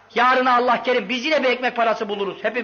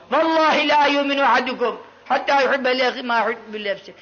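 Arabic recitation. Acted. Quotes a hadith in Arabic.

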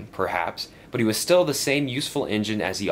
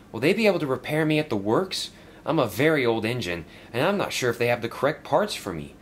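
higher, lively little engine; worried old engine asking Sir Topham Hatt, lightly raised engine voice; young engine voice; 5 semitones higher than usual. Acted. Stepney worried about repairs, asking his boss in a higher voice.

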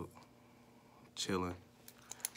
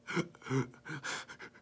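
mock breathy sobbing gasps; short voiceless mock sobs; imitated crying; 4 semitones higher, 5 dB quieter than usual. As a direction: imitate someone too choked up to talk. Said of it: "can't even talk crying".

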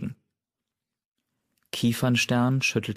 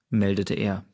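plain reading voice

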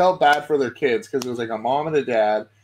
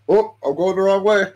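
higher mock shopper, laughing it off; imitated laughing apology; 5 semitones higher, 4 dB louder than usual. Shopper caught going the wrong way in an aisle, imitated laughing. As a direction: imitate someone giggling at their own mistake. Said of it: "she's, like, laughing".

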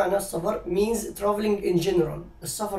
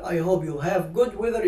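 correct form; much slower than usual. Shown as a demonstration. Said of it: "correct version".

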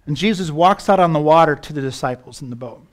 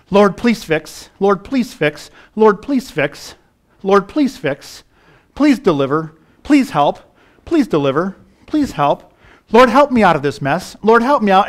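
mock whining prayer; 4 semitones higher, 5 dB louder than usual. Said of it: "I find myself whining, complaining".

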